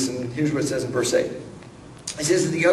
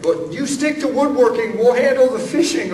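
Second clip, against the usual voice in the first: dismissive brush-off; 8 semitones higher, 5 dB louder than usual. Retold or imitated. Fishermen brush off the carpenter.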